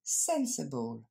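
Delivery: "Sensible" in English, SEN stressed, then "suh-bull"; English model pronunciation. Shown as a demonstration. Teacher demonstrates for French learners, English "Sensible", first syllable stressed. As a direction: model "Sensible" carefully with a falling tune. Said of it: "je vous laisse répéter".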